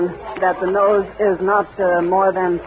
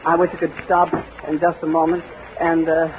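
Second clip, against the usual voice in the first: out of breath. Real, not acted. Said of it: "see if I can get my breath again".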